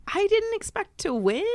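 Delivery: very high, small mock-crying voice; imitating tearful confession. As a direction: squeak it out as if through tears. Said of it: "I just started crying".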